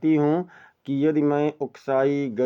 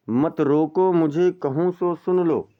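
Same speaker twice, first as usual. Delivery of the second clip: slow, measured verse reading; poem recitation. Shown as a demonstration. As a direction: recite it like classical poetry. (धीमा काव्य पाठ)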